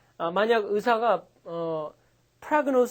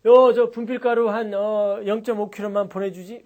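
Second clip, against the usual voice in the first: louder casual coded request; mock dealer code talk; 6 dB louder than usual. Drug dealer on the phone disguising an order. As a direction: order drugs as if ordering chalk dust. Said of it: "이러겠지 뭐".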